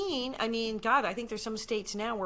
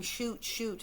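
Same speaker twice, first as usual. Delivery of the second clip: normal talking voice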